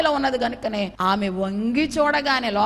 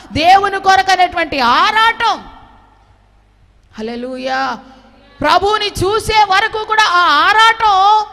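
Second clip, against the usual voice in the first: growing louder and higher line by line; building sermon cry; 7 semitones higher, 8 dB louder than usual. Acted. Pastor describing Mary's longing, in a rising preaching cry. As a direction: build it up to a shout.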